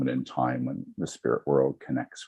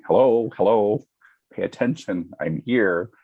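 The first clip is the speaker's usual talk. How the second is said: higher, eager call from a spirit; 7 semitones higher, 6 dB louder than usual. Retold or imitated. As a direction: play the spirit tugging for attention. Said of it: "spirit's actually going".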